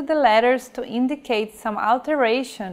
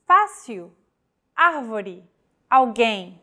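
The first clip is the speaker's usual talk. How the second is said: Fácil, árvore, alguém, each stressed on its accented vowel. Shown as a demonstration. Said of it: "all the stressed vowels in these words".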